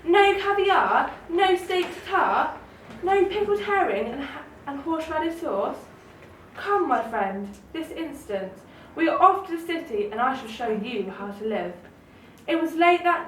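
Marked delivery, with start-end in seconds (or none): 0.0-11.7 lightly hammed snooty city mouse; scoffing. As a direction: sneer at the country food, then sweep him off. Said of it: "scoffed Town Mouse".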